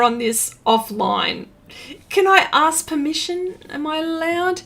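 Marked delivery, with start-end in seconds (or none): 2.1-4.6 higher, pleading repeat of "Can I ask permission?"; mock pleading. Real, not acted. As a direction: beg playfully, stressing "I" with a rise.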